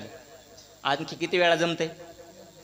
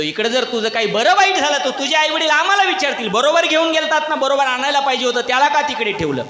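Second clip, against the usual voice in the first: pleading shout; 9 semitones higher, 5 dB louder than usual. Retold or imitated. Friends pleading with non-swimmer.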